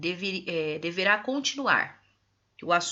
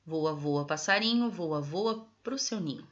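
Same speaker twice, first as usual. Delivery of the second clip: poem reading; 3 semitones lower than usual. Shown as a demonstration. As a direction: recite the little poem for the class. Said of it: "Leiam em voz alta esse trecho do poema". (leitura de poema em voz alta)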